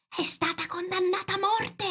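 forceful high stage whisper; urgent whisper. A narrator's reading. Rabbit tells Alice the secret, whispering. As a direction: hiss the secret into an ear. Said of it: "bisbigliò".

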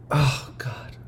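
breathy whispered aside. Real, not acted. Overwhelmed by memory.

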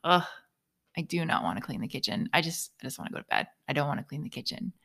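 tired whine. Retold or imitated. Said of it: "I was like".

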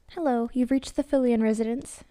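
bright, upbeat phone greeting; cheerful housewife answering the phone; cheery. Acted. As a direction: answer the phone sunny and friendly. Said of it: "she said cheerily".

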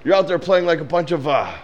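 high, mocking jeer that peaks on "girls"; hammed-up taunting, rising into a loud squeal; movie character's taunt. Acting out the movie's bathroom scene, mock taunting. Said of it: "He's like".

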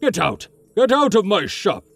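put-on high, furious old shopkeeper yelling; angry old shopkeeper. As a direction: throw him out of the shop. Shopkeeper throws customer out.

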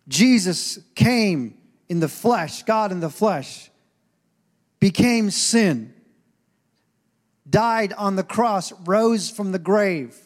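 slow, weighty gospel proclamation; slow, solemn sermon cadence; slow preaching. Real, not acted. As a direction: lay each phrase down slowly.

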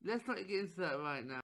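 very soft quick aside; muttered aside. Real, not acted. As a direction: mutter it off-mic. Quiet aside.

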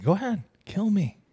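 high-pitched goading voice; acted taunt. Host acting the possessed son goading visitors, taunting. Acts out Uriel taunting the brothers.

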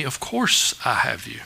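low, soft, certain answer; gentle and sure, voice dropped; tender reassurance. Acted. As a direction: quietly reassure someone who doubts. Jesus answers a doubting question.

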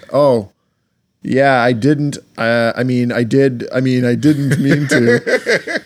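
halting mock admission, drawn out at the end; hesitant backpedalling. LeBron owning up to the punch, hesitant backpedalling. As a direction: stumble through a half-hearted excuse.

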